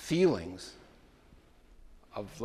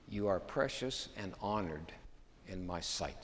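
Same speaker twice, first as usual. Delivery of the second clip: slow tender emphasis; 3 semitones lower, 8 dB quieter than usual. Shown as a demonstration. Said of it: "Just let that sink in".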